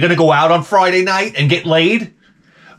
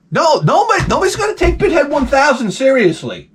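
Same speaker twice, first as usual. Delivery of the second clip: high-pitched, strained insistence; exasperated protest; 10 semitones higher than usual. Real, not acted. Comic fretting over his small channel, exasperated and high. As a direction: protest it high, nearly shouting. Ranting about his subscriber count.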